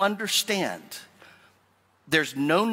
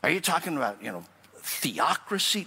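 worried objector; 3 dB quieter than usual. Retold or imitated. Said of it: "some of you get in the heebie-jeebies".

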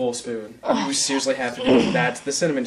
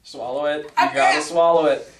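louder insisting, swallow it; urgent insisting; 5 dB louder than usual. Real, not acted. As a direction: push her to swallow. Urging friend to swallow.

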